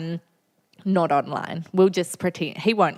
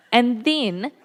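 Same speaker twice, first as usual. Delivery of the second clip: laughing through the words; 5 semitones higher than usual. Real, not acted. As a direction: let a laugh break into the line. Laughing while telling the story.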